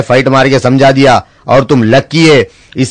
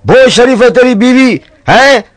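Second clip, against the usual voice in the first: high teasing friend; 10 semitones higher than usual. Acted.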